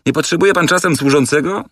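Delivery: high, lifted asking voice; hopeful servant. Acted. The wanderer asking the circus owner for work, hopefully. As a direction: ask hopefully, rising at the end. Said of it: "spytał obieży świat".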